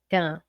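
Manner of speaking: tan with the N only nasalizing the A, no N sound; tan said through the nose, vowel nasalized, N silent; clipped nasal tan demo. Shown as a demonstration. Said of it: "É como se fosse assim".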